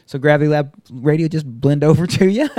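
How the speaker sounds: laughing through a teasing question. Retold or imitated. To the host about the show, laughing. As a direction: tease him with a laugh.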